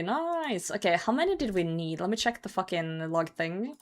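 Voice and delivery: ordinary talk, nothing marked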